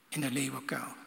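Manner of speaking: hushed, ominous whisper; dramatic whisper. Acted. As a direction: whisper it, dropping to nothing. Daniel ends in lions' den.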